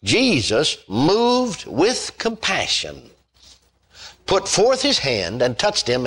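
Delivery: a preacher reading the healing of the leper; scripture reading. Acted. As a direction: read the King James text with reverence. Reading King James scripture aloud.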